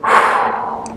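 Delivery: long, soft breathy exhale; heavy sigh. Retold or imitated. Marine bracing himself to meet the family, heavy sigh. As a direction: let out a slow steadying breath. Sighs before entering the building.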